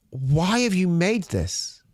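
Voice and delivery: slow, baffled why; exasperated. Retold or imitated. Fan asking the studio why, exasperated and slow. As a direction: drag out the disbelief.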